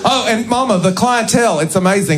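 high-pitched put-on Southern accent. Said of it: "I'm doing a Southern accent for a reason".

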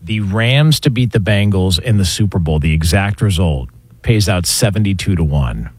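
low-pitched sponsored odds read. Real, not acted. Reads sponsored betting odds.

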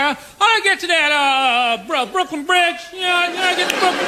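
put-on harsh Southern accent. Comic imitates a lost Southerner asking directions, harsh Southern accent. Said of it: "a really harsh Southern accent".

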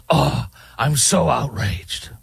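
slow, sarcastic fake indignation; mock outrage. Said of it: "holier than thou".

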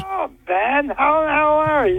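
tinny muffled phone audio; bad phone line. Real, not acted. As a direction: sounds like a poor call connection. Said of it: "sounds like on a bad phone line".

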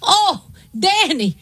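slow, gushing imitation of a dad; delighted dad. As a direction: marvel at a tiny gift, drawn out. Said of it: "my dad thought everything was fantastic".

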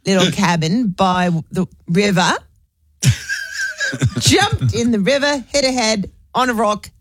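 lightly imitated, slow and matter-of-fact; Pamela telling a story. Friend Pamela's grim story, lightly imitated, slowed down. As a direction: drag it out, then drop dead flatly. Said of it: "this is how Pamela tells the story".

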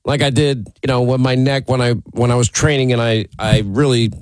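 talking through a head cold; congested, nasal from a cold; stuffy nose from a cold. Real, not acted. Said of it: "We hear it through your nose".

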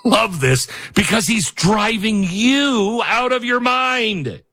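giddy fan jeering at critics; gleeful fan. Retold or imitated. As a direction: gloat like a thrilled supporter. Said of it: "His fans are all like".

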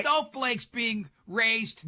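slow, scornful grumble. Acted. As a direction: drag it out in disgust. Mocking old-timer.

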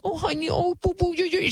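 put-on high, sugary baby-talk mother; cooing mom. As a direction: coo over the child like a doting mom. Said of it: "the mom was like".

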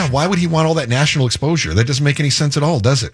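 mild mock bewilderment; sarcastic. Co-host feigning puzzlement over the governor's publicity, sarcastic. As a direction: play innocent with a rhetorical question. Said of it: "That's sarcasm, by the way".

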